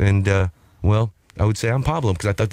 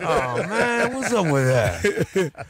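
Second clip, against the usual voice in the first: high character voice; 6 semitones higher, much slower than usual. Retold or imitated. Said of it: "that whistle".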